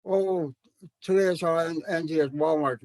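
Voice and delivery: rattled off like fluent elders; quick, flowing. Retold or imitated. Teacher imitating fluent elders' fast university Tanakh. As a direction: run the words together quickly. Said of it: "they would just go".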